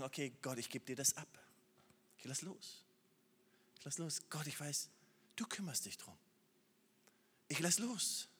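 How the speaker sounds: quiet, soft letting go; soft surrender. Acted. Preacher voicing a soft prayer surrendering to God. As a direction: release it gently, almost whispered.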